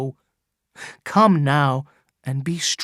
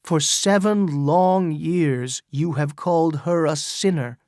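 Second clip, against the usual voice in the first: crying out to the crowd; 3 semitones higher than usual. Acted. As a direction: proclaim it to the whole crowd. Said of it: "he cried".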